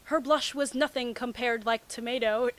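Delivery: ordinary delivery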